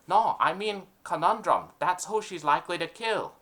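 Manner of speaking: eager dim henchman; mafia henchman. Acted. Henchman speaks.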